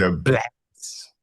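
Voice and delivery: "The blacks" said low with heavy weight on "blacks"; pointed emphasis. Acted. To the group, repeating the phrase that upset her, low and pointed. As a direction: lean hard on "blacks", deliberately provocative. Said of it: "he's putting emphasis on black".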